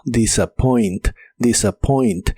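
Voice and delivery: "disappoint" slowly, every written sound clear; pronounced as written. Shown as a demonstration. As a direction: sound out "disappoint" just as it is spelt. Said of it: "Se pronuncia igual como se escribe". ("disappoint" pronunciado igual que se escribe)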